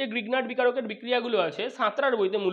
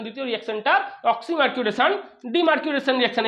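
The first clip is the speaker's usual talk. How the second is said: slow dictation; 3 dB louder than usual. Shown as a demonstration. Teacher dictating to students taking notes, paused and chunked. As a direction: split into chunks with pauses so students can write. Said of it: "একটু note করে নিস".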